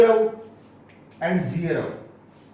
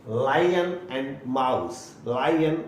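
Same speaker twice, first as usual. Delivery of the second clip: very slow example; 5 semitones lower, much slower than usual. Shown as a demonstration. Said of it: "slow example".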